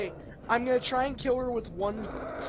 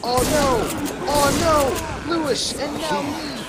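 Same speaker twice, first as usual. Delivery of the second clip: dismayed; 7 semitones higher, 4 dB louder, slower than usual. Real, not acted. Teammates going down.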